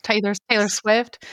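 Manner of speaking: A singer's name with a light, accidental country twang; country accent. Real, not acted. Naming a famous singer to her co-hosts, a mild accidental country accent. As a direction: let a mild country accent slip in without meaning to. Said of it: "I don't know why I said that with a country accent".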